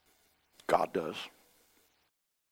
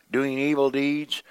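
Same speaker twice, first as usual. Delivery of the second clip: slow whisper that leans on evil; slow stage whisper on evil deeds; dramatic whisper; 6 semitones higher, 5 dB louder than usual. Acted. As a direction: hush it slowly, stressing evil. Whispered phrase inside scripture.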